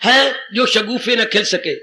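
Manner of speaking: slow, measured verse recitation; unhurried poetic couplet, savouring the lines; recited couplet. Shown as a demonstration. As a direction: lay out each word of the couplet slowly. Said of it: "महापुरुष क्या कह गए".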